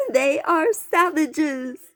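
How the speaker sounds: high, loud, slow outraged cry. A narrator's reading. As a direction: cry out in horror at them. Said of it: "Charlene Darling cried".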